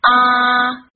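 啊 as a wide, lax AH, held long; too-open AH. Shown as a demonstration. Teacher warning learners what to avoid, 啊 too open and held. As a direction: let 啊 hang open and drawn out. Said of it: "以免发成啊这个音的短音".

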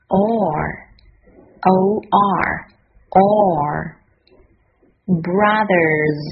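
"Or", spelled O R, then "Brothers", drawn out; pronunciation demo. Shown as a demonstration. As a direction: model "Or" and "Brothers" word by word. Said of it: "现在我们来看看发音的部分".

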